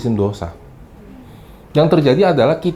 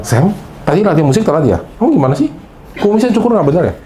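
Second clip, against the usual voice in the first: higher, sneering critic; mocking nitpick; 3 semitones higher, faster than usual. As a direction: tease like a petty leader. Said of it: "Bukan bilang". (kritik mengejek dengan nada tinggi)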